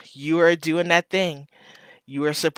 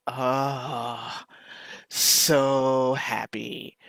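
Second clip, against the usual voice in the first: real tearful, very slow "so happy"; choked up, drawing the words out; crying; 3 semitones lower, 3 dB quieter, much slower than usual. Real, not acted. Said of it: "And I'm crying again".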